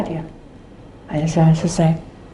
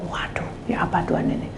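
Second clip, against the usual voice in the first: whispered aside; 11 dB quieter than usual. Retold or imitated. Exasperated aside to God.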